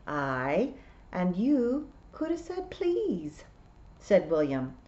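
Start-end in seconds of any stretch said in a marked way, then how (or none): 0.1-3.4 testy Scots piper. A narrator's reading. William rebuking Tiffany's manners, testy Scots. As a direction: pitch climbing to a high please.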